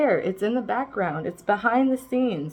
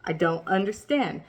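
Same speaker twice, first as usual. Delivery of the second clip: laughing exasperation; 4 dB louder than usual. Retold or imitated. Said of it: "It's like".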